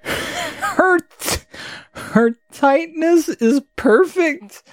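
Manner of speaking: hammed-up high rodent voice; squeaky rat. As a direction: squeak it out like a lewd little rat. The rat's line in a put-on voice.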